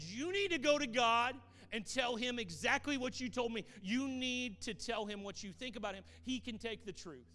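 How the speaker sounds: high, loud, preaching push; a pastor loudly urging a woman to speak honestly to God; urgent exhortation. Retold or imitated. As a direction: urge her with full force.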